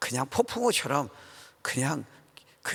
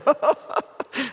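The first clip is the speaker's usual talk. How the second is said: short chuckle trailing off; brief amused laugh; real laugh; 12 semitones higher, 6 dB louder than usual. Real, not acted. Laughs at his own zeal.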